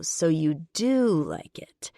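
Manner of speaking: slow, breathy smirking tease. Acted. Man teases the woman who denied liking his name, smirking. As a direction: tease her with a knowing smirk. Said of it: "he smirks".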